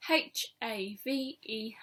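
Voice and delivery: slow letter-by-letter spelling; H A V E, each letter slow and separate; spelled out slowly. Shown as a demonstration.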